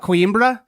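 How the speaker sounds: Coimbra said with a drawn-out, accented flourish; Coimbra with flair. Shown as a demonstration. Co-host showing off how they pronounce the game's name, Coimbra with flair. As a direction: give Coimbra a showy foreign-style pronunciation. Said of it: "I have a little flair".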